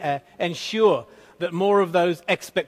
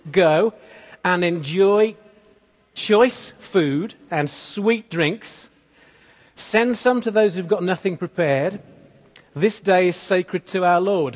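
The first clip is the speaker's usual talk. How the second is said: slow, louder proclamation to the people; Nehemiah proclaiming; 3 dB louder, slower than usual. Retold or imitated. Prophet Nehemiah telling the people to feast, slow and loud. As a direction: announce it like a prophet commanding a feast. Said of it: "Nehemiah said to the people".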